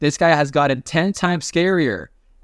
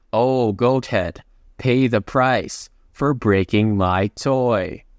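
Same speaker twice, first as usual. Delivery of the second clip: slow, slightly lowered threat; slow storyteller's take on a villain; retold menace; 3 semitones lower, slower than usual. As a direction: draw the threat out slowly, understated.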